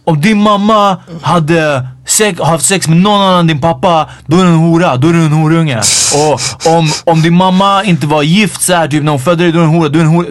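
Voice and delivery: half-strength imitation of yelling; retold ranting. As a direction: imitate a man hurling insults. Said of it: "bara skriker och skriker".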